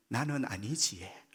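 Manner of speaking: "나는 아니지에" in a slow Gyeongsang dialect lilt, falling at the end. Shown as a demonstration. 경상도 사투리로 천천히. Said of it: "경상도 말로".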